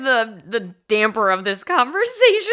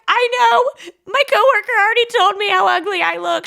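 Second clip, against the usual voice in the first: exasperated; 11 semitones higher, 4 dB louder than usual. Retold or imitated. Exasperated reply to mom.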